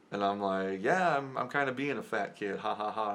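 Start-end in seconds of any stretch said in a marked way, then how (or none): 0.8-2.6 playing along, pitched up; joking along. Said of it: "I laughed it off 'cause I was going with it". 2.6-3.1 spoken mock laugh. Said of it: "I laughed it off".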